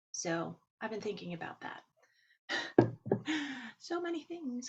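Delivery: ordinary delivery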